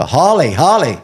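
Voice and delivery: mock shout to grab his attention; shouting across the gym. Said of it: "Christopher shouts over".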